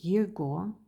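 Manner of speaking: его read letter by letter with г as g; spelling pronunciation. Shown as a demonstration. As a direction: say его as "yego", with a hard g. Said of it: "It's written".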